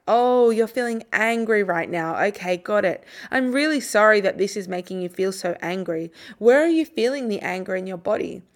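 put-on slow, gentle words to an angry child; calm them without judging, unhurried; calm, slow, quiet tone. Shown as a demonstration. Parent calmly naming a child's anger, slow and gentle. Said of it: "use a calm, slow, quiet tone of voice".

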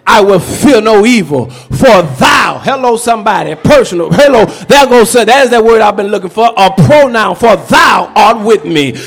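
scripture recital. Acted. Reciting Psalm 23.

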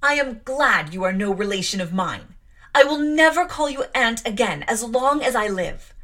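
loud, high, trembling defiance at her aunt; furious outburst. Acted. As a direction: shout it at her, shaking with rage. Jane shouting at Mrs Reed.

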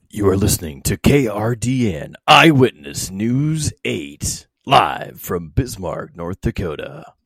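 radio announcer reading a station ID. Shown as a demonstration. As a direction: announce the call letters like radio. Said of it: "Give us a station I D".

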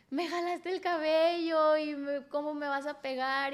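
high, slow whiny accusation; mocking the ex. Quoting her ex's accusation to the host, high whiny mock. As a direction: drag it out like a self-pitying accuser.

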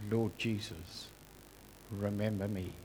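hushed whisper-soft prayer from a deathbed; soft dying plea. Retold or imitated. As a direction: breathe it like a dying man's last prayer. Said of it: "literally almost his last words were".

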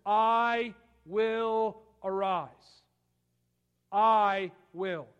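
slow, loud, ringing declaration of the Lord; thundering divine promise; booming proclamation. Acted. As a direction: proclaim it slowly with full force. Preacher voicing the Lord's promise.

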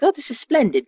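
high-pitched mock British delivery; UK-style imitation. Showing how splendid sounds in the UK, mock British. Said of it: "like a U K, right?".

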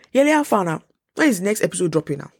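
high-pitched opening, then a rapid nagging question; pestering friends. Acted. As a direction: imitate friends chasing up the next episode. Voicing nagging friends and family.

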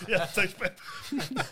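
drawn out slowly through laughter; laughing. Real, not acted. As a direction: savour the joke, laughing it out. Repeats joke while laughing.

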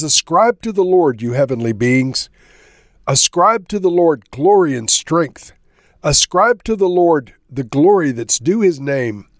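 measured, emphatic psalm reading with pauses; scripture reading. Acted. Preacher reads a psalm to listeners, measured scripture reading. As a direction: read it out as solemn proclamation, line by line.

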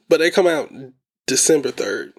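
speaking through hiccups; words broken by hiccups. Real, not acted. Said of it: "I got the hiccups".

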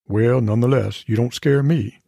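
unruffled, lightly Southern sheriff voice; a hint of a cool Southern lawman; Southern sheriff cat. Cat unafraid of Maggie, mild Southern sheriff. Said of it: "the cat sounds like a Southern sheriff".

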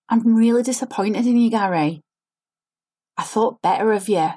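over-inflected line, feeling put on; fake forced inflection. Shown as a demonstration. Acting coach demos a fake, forced line read. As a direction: act the line falsely, pushing colour into every word. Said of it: "Can you see I'm trying to put a feeling in the line".

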